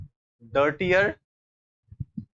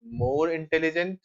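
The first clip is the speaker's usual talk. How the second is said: very slow, stretched words while writing; slow dictation; much slower than usual. Shown as a demonstration. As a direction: dictate it slowly to the class. Teacher writing the answer. (धीमे, लिखवाते हुए)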